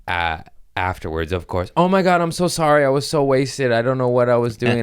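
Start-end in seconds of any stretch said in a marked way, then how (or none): 1.8-4.8 put-on much higher, louder gushing drunk woman; mock drunk fan gushing her apology. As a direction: gush like a wasted fan apologizing. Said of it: "she messaged me".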